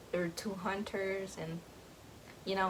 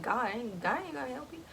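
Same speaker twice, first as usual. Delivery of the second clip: mean big man; 4 semitones higher, faster than usual. Retold or imitated. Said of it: "he means business".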